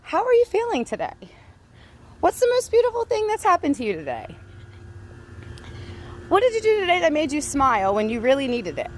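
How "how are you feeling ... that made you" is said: sweet example question. Shown as a demonstration. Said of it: "You wanna ask a question that's relevant?".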